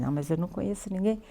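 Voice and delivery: quick, breathless retold whisper; shy whisper. To the waiter, nervous about strangers: a quick shy whisper. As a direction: whisper it like you're too shy to ask.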